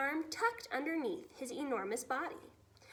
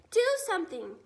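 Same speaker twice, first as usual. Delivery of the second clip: higher, louder plea; frightened cry; 6 semitones higher, 7 dB louder, faster than usual. Acted. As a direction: beg in panic. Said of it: "she cried".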